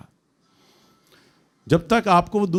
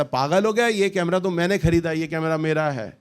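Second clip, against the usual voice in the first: mildly indignant, slightly raised pitch; indignant claim. Retold or imitated. Preacher voices the friend grabbing the camera, indignant. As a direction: act out staking a claim. Acted tug-of-war over camera.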